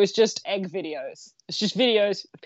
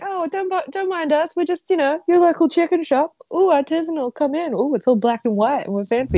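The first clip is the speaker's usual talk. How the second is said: higher, lightly hammed-up snooty voice; posh shop voice; 7 semitones higher, 4 dB louder than usual. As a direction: play the snooty artisanal shop. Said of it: "they're like".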